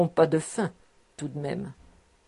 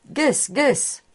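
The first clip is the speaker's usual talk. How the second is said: higher-pitched summons, rising at the end; calling out; 6 semitones higher than usual. A narrator's reading. Master summoning his office boy, calling out. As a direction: call the servant over.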